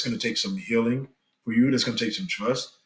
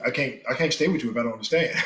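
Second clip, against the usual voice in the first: laughing; faster than usual. Real, not acted.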